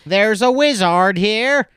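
high, loud, slow announcement of a wizard; awed alarm. Pretend. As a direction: cry out in superstitious awe. Peasants voiced in bit.

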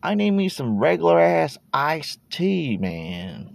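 put-on playful good-ol'-boy Texan accent; mock Texan drawl. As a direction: lean into a proud Texan twang, half-joking. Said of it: "Why am I talking like that?".

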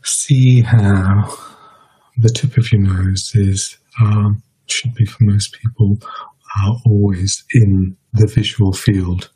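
measured meditation guidance with long pauses; guided meditation. Real, not acted. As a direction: guide listeners unhurriedly, leaving space between phrases.

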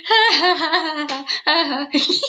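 deliberately phony staccato ha ha ha; great fake laugh. Showing the parents her fake laugh, hammed-up. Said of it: "That's my great fake laugh".

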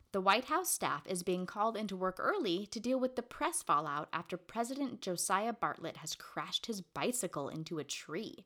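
animated read-aloud delivery; plot summary read. Real, not acted. Co-host reads the plot summary, animated recap.

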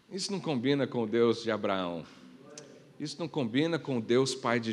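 low and soft, weighty; quiet. Acted. Pastor telling the church what fits God, low and soft. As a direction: say it low, almost to yourself. Repeated line, quiet then loud.

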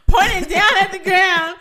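high, wobbly near-tears gasp; panicked mock crying. Retelling finding the gun, half-crying in panic. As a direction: squeak it out like a panicked crier. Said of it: "I'm about to start crying right now".

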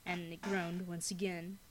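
spooky storyteller reading aloud; story narration. A narrator's reading. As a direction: tell it like a campfire ghost story. Reads scary story aloud.

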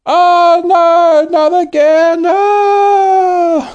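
high, loud panicked wail; panicked cry. Acted. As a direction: yelp in sudden panic. Pilot hit by dirt dust.

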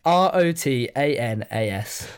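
R O T A N A S spelled letter by letter, slow; careful spelling of the band name. Shown as a demonstration. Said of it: "spelling it out".

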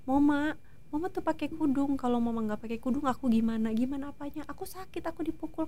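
soft, high imitation of a crying child; retold tearful pleading. Mother acting out her child crying in a dream, hushed tearful plea. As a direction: plead quietly, voice lifted, as if tearful. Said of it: "di mimpi aku dia nangis-nangis".

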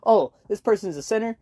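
hammed-up Southern adoption agent; deep south accent. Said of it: "like, a thick Southern accent".

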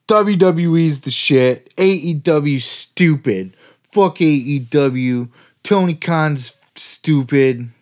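slow, sneering fanboy jeers; drawn-out parody of a tribal wrestling fan; mocking fanboy rant. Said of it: "but why does it have to be".

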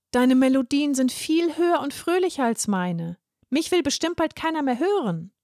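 small man doubting himself, voice rising; insecure. Acted. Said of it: "Verunsichert schaute er zu ihr auf". (Franz zweifelt vor Viola, höher und verunsichert)

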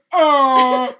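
cow sound. Acted. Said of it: "And I go".

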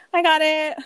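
laughs through the words; giggling relief; a real laugh breaking in. Real, not acted. Laughing at found phone.

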